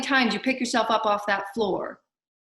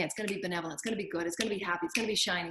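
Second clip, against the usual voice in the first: soft inner affirmation; 3 semitones lower, 7 dB quieter, much faster than usual. Acted. Voicing a person's morning affirmations.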